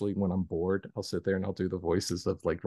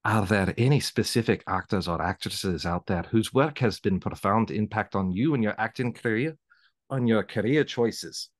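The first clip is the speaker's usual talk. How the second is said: put-on a rough, self-conscious Scottish accent. Host reading her question, trying a Scottish accent. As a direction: read the question in a hesitant Scottish accent, slowing at the end. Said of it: "I just went Scottish".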